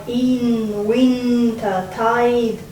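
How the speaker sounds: winter tide drawn out very slowly; slow, savoring. Shown as a demonstration. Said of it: "again we have the same sounds".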